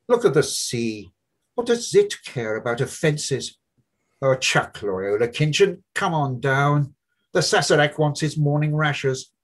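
high, loud mocking young man's voice; Buck Mulligan. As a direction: play the brash medical student, needling his friend.

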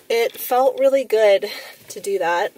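flat robotic monotone. Real, not acted. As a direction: speak like a tired robot. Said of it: "Why do I sound like a robot?".

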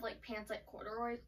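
talking through hiccups; words broken by hiccups. Real, not acted. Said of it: "Sorry, I have the hiccups right now".

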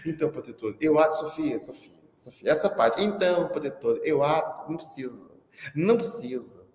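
put-on a light childish lisp; lisping little girl. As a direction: mimic a kid with a tongue-tie. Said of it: "Sofia tinha língua presa". (imitando de leve a menina de língua presa chamando o professor)

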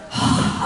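weary mock sigh; resigned sigh. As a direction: sigh as if stuck with it. Resigned to being the somebody.

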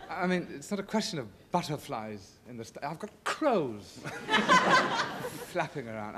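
chuckling through the words; laughing. Real, not acted. Guest laughing to the host about his stage fright, laughing. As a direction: laugh while confessing the panic.

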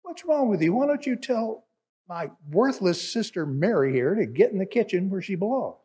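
exasperated scolding. Acted. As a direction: scold him like a fed-up sister. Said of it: "And so she just says".

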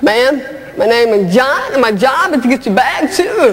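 lightly voiced old man, slow; a hint of a slow, dutiful old bellhop; elderly bellhop. Old bellhop introduces himself to a hotel guest, lightly voiced old man. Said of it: "seventy-one years old".

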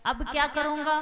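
despairing wail. Acted. Father wails over burning house.

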